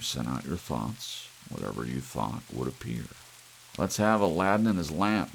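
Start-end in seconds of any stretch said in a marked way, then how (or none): 3.8-5.3 quick, louder irritated command; snapped. Acted. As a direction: snap it out impatiently. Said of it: "he snapped".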